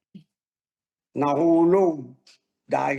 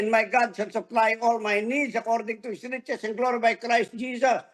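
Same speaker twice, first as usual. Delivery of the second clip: decree; 5 semitones higher than usual. Retold or imitated. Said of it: "nag-decree".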